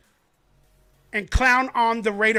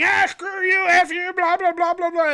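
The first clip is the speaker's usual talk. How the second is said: mock cursing; 7 semitones higher than usual. Mocking fan waving and cursing.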